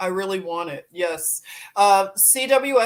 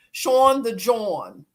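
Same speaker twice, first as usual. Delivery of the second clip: slow "Sean the John" rhymed on the aw sound; Philly accent; 4 dB louder, slower than usual. Shown as a demonstration. Playful rhyme on a viewer's name in a Philly accent. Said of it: "That's how you say it in Philly".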